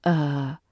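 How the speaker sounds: Er said soft and short; schwa. Shown as a demonstration. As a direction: drop in a quick unstressed Er. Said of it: "It's soft, quick, and never stressed".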